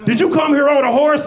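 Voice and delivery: high, loud Southern taunt; mocking Southern caricature; fake Southern accent. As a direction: jeer like a hammed-up Southern judge. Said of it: "He talking in a fake Southern accent".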